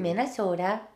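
put-on Minnesota accent with long O's; playful Upper Midwest accent. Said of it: "weird how accents are a thing".

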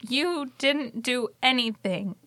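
tearful apology. Acted. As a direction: apologise through held-back tears, haltingly. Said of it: "and she starts crying".

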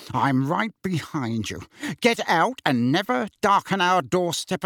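worked-up, rising tirade; angry rant. Acted. Uncle ordering the boy out of the house, angry rant.

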